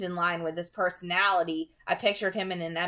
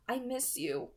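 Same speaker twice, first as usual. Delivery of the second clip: whispered; 5 semitones higher, 6 dB quieter than usual. A narrator's reading. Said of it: "she whispered".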